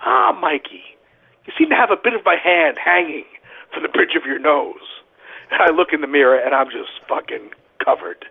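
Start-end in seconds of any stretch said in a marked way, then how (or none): 0.1-4.8 casual, unbothered, lightly imitated; calm mock Vandy. Vandy calmly telling Mikey about the blood, in a mock-calm voice. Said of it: "very calmly turns to me and goes".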